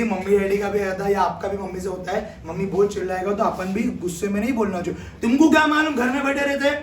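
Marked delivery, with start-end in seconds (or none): 5.2-6.7 much higher, louder whiny protest; complaining child. Retold or imitated. A kid complaining to mummy about study hours, much higher and louder. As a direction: whine like an overworked kid.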